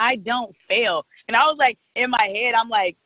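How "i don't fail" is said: cocky flat denial. Retold or imitated.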